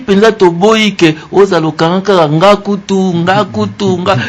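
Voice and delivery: high, insistent no-no-no; emphatic refusal. Real, not acted. Host scolding youth who always complain, emphatic and high. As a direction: brush off the complaining firmly.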